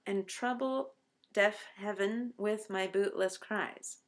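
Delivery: slow, with "trouble" and "heaven" both given two full syllables; eleven-syllable reading. Shown as a demonstration. Teacher reading the problem line slowly to show the extra syllable. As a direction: spell out every syllable of "heaven". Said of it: "eleven syllables if you read it this way".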